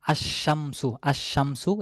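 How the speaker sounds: আশ-শামসু said with a long doubled sh and no l; sun letter assimilation. Shown as a demonstration. Teacher models the silent lam for students, doubled sh. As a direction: stretch the sh in আশ-শামসু. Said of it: "এখানে লামটি উচ্চারণে আসছে না".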